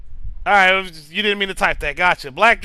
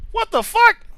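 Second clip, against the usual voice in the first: shocked; 11 semitones higher than usual. Real, not acted. Reacts to chat message.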